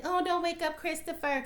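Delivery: high-pitched mimicry of a precious mother; mock fussing mama. Mocking Laurel playing the mama card, fussy imitation. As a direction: make fun of her playing the mama card. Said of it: "she always gotta play the mama card".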